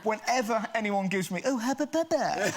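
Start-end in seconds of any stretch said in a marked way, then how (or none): 1.4-2.5 put-on much higher, slow, laughing Bristol accent; Bristolian cousin voice. Cousin marvelling at the gum, high slow Bristolian accent. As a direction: stretch it out in a broad Bristol accent. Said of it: "It's my cousin Sandy".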